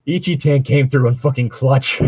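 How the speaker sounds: high and loud delighted praise; gushing over a co-writer's line; excited praise. Real, not acted. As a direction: cheer a friend's clutch line. Praising partner's line, laughing.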